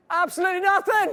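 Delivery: high, loud blissful outburst; joyful shout. Real, not acted. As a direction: shout the silence with glee. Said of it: "enjoying the silence".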